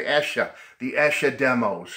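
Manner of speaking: Boston Providence accent, r dropped; New England accent, Escher without r. Shown as a demonstration. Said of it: "my Boston Providence accent here".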